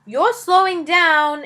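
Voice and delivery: slow, drawn-out impatient dragon; slow dragon grumble. Acted. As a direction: stretch it out like a bored dragon. Dragon complains on the walk.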